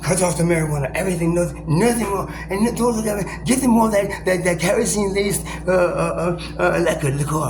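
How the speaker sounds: high, loud, bossy acted voice; hammed-up official giving orders; mock commanding official. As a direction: bark out orders like a slave master. Voicing the authorities giving orders.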